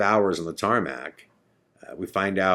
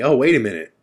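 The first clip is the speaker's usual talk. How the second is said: higher-pitched dawning realization; sudden realization; 4 semitones higher, 4 dB louder than usual. Retold or imitated. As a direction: act out the penny dropping. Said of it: "And then it hits me".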